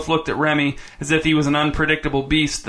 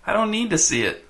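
high, thin, slightly whiny voice; 6 semitones higher than usual. A narrator's reading. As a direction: whine it a little, pitched up. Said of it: "thin and a little whiny".

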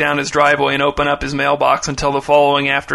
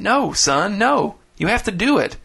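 urgent insistence; 6 semitones higher than usual. Acted. Father urgently overruling son.

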